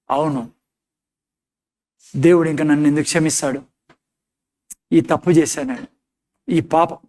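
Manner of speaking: despairing believer. Retold or imitated.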